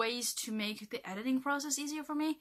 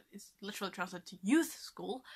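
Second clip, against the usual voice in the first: whispered laughing aside; whispering. Real, not acted. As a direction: giggly whisper.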